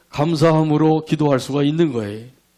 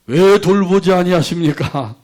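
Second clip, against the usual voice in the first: slow, mildly acted reproach; a touch of grievance, stretched out; resentful prayer; 3 semitones higher, 4 dB louder than usual. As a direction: draw out a complaining question. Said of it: "원망의 기도를 드리게 된 거예요".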